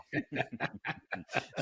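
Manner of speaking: soft good-natured chuckle; a quiet friendly laugh at a guest; kind gentle laugh. Real, not acted. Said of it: "Sorry, I'm not laughing at you".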